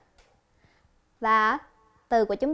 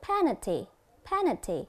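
"Penalty" said as PE-nal-ty; stress on first syllable. Shown as a demonstration. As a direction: punch the PE in "Penalty". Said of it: "dấu nhấn nằm ở âm thứ nhất".

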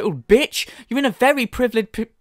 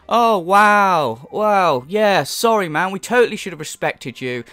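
sarcastic apology. Acted. Commentator pretends to apologise to streamer, sarcastic. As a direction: put on fake contrition.

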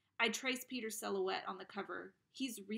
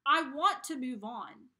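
desperate outburst; 5 semitones higher, 10 dB louder than usual. Acted. Boy pleading to move on.

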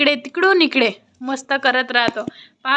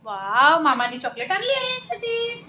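delighted cooing; 3 semitones higher than usual. Real, not acted. Delighting child over uncle's chocolate. (लहान बाळाशी कौतुकाने, लाडिक सुरात)

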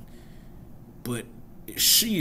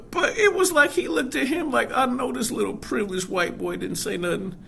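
laughing through words; 13 semitones higher, 4 dB louder than usual. Real, not acted. Retelling scene while laughing.

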